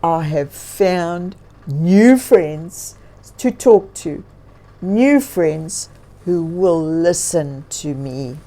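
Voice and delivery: a big bear musing aloud, loud and slow at the end; thankful bear talking to himself; grizzly bear voice. Acted.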